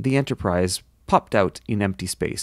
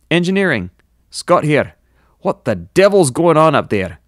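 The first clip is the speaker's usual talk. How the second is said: loud, high, exclaiming officer; alarmed engineer; 6 semitones higher, 7 dB louder than usual. A narrator's reading. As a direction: answer the call loudly and demand an explanation. Engineer answers call amid crisis.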